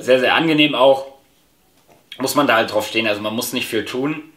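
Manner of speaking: talking around hookah hose; muffled by mouthpiece; mouthpiece at lips. Real, not acted. Seen 1: Mouthpiece at lips from 2.3 to 8.1; lowered while talking at first.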